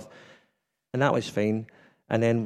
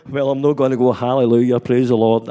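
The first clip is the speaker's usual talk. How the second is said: loud, fervent praise; hammed-up loud praise; mock exclaiming; 8 dB louder than usual. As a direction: burst out with a hallelujah. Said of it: "I'm like".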